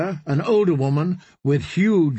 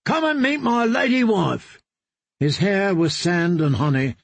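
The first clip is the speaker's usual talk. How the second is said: lightly voiced tipsy boast, higher; drunken singer; 5 semitones higher than usual. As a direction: show off the bride with drunken glee. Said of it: "the singer called out drunkenly".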